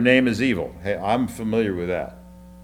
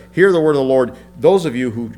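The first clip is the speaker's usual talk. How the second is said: proclaiming scripture; 3 semitones higher, 7 dB louder than usual. Acted. Preacher proclaiming God's word to the congregation, loud. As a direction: call it out like a prophet.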